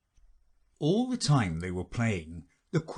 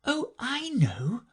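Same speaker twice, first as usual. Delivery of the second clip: exclaiming; slower than usual. A narrator's reading. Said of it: "exclaimed Alice".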